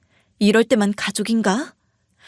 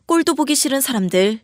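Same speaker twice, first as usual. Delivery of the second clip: ordinary delivery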